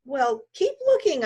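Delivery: loud, high, slow yell. Acted. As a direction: shout an order at her. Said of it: "I yelled".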